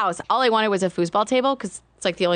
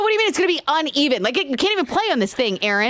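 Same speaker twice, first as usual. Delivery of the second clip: upset disbelief; 6 semitones higher, faster than usual. Retold or imitated. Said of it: "I'm all upset".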